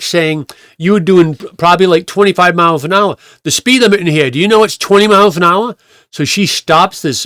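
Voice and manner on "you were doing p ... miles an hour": raised-pitch telling-off; mock lambasting. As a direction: imitate a busybody scolding a driver. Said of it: "lambasting him".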